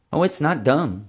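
high, earnest friend; helpful friend. A narrator's reading. Friend butting in to defend the shark tank, helpful. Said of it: "trying to be helpful".

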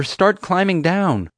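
slow, high projected call; urgent calling out. A narrator's reading. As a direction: shout directions across a gap. Calling across to friend in tree.

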